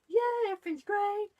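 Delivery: high, bright cheer of yay; overly animated. Shown as a demonstration. Mum showing her fun voice for happy times, high cheer. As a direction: cheer like it's the best day ever. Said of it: "really fun and animated".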